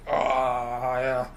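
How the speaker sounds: mocking an underpaid worker who loves her job; sarcastic mimic. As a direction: drag out love my job mockingly.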